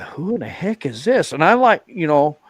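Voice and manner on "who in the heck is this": retold puzzlement, pitch raised; mock-baffled question to himself; baffled reaction. Biker recalls spotting the woman on pink bike, baffled.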